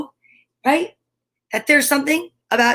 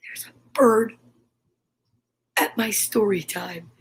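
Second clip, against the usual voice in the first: whisper; 3 semitones lower, 4 dB quieter than usual. Real, not acted. To viewers while a bird watches her, hushed whisper. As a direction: breathe it so the bird stays put. Bird at window, not scaring it.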